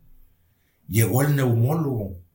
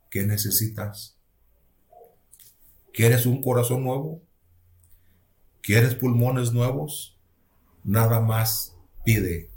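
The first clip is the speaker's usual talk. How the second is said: slow, measured, lightly voiced voice of God; strong divine voice; slower than usual. The Lord offering a sick man new lungs, measured divine voice. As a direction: lightly imitate a divine voice, taking your time. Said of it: "de esa voz fuerte".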